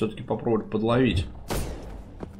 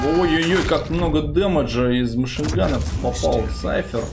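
excited; 4 semitones higher, 3 dB louder than usual. Real, not acted. Commentator reacting to big damage.

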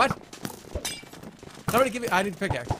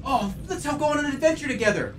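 talking to a dog; 3 semitones higher than usual. Acted. Playing with dog Otto.

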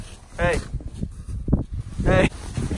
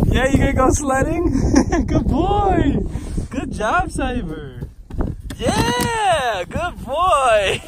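sledding downhill; 8 semitones higher, slower than usual. Real, not acted. Praising dog while sledding downhill.

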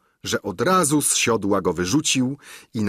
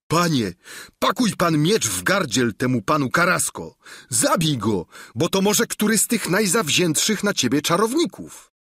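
high, urgent squire's shout; 7 semitones higher than usual. Acted. Sancho urges his master to kill the knight: high, urgent shout. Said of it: "zawołał".

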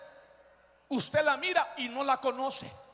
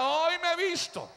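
higher, proclaimed line to repeat; call for response; 4 semitones higher than usual. Real, not acted. Preacher giving the church a line, proclaiming. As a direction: lead the crowd in a declaration.

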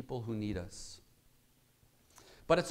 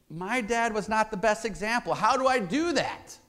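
pitched-up pleading; higher, urgent questioning; questioning men; 8 semitones higher, 5 dB louder than usual. Retold or imitated. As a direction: voice a lost man asking. Men voiced asking for help.

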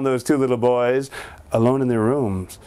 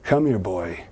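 lower, softer father; low dad voice; 7 semitones lower, 3 dB quieter, slower than usual. Acted. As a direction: call him over like a stern dad. Dad calls the boy.

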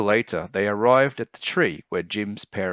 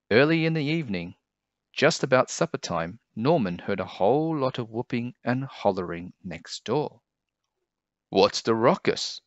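lively picture-book read-aloud, pitch lifted; storyteller with higher, swooping pitch; story narration; 4 semitones higher than usual. A narrator's reading. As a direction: read it to children as a bedtime tale.

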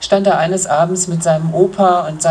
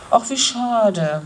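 slow, higher mock whine; whining; 4 semitones higher, slower than usual. Little Matz laments the lost star gold, slow whine. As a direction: draw it out like a let-down little boy. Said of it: "jammerte Matz".

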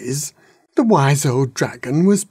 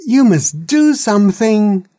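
put-on baby dragon; 9 semitones higher, 6 dB louder than usual. A narrator's reading. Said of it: "said the baby dragon".

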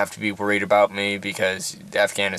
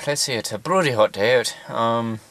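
put-on light Irish accent, loosely held. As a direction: chat casually in a mild Irish accent. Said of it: "I'll be doing an Irish accent right now".

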